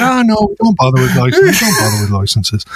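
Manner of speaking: put-on Irish accent. Friend from Mayo dismissing licenses, mock Irish accent. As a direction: brush it off in a mock Irish lilt. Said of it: "he just said".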